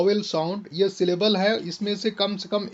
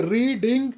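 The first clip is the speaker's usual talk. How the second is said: रीडिंग with a stretched, stressed first syllable रीड; 3 semitones higher than usual. Shown as a demonstration. Teacher showing syllable stress, first part of रीडिंग stretched. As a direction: draw out the start of रीडिंग, lighter ending. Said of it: "यहाँ पर आपका stressed syllable है first".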